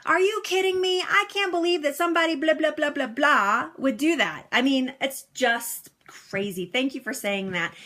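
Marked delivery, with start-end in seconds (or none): 0.0-4.5 high, outraged yell at the TV; mock rant, pitched up in disbelief; retold yelling. Viewer ranting at the TV news, mock yelling. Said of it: "like, yelling at the T V".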